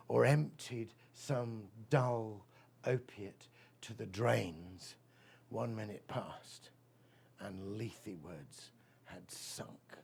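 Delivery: slow, solemn poetry reading; poem recital. Acted. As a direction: let each line hang, very slowly. Recites Keats ode.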